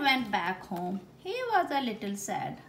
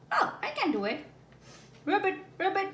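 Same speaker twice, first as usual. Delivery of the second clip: eager elephant; 10 semitones higher, 4 dB louder, faster than usual. Acted. Elephant tries to bark.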